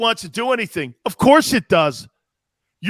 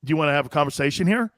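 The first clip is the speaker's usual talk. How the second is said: Caserio impression; 6 semitones lower, 3 dB quieter, faster than usual. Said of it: "Nick Caserio would go".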